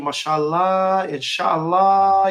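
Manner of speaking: mashallah, inshallah said slowly and carefully; Arabic phrases. Shown as a demonstration. Showing off his Arabic to the host, slow careful phrases. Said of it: "Now, is my Arabic, uh, good?".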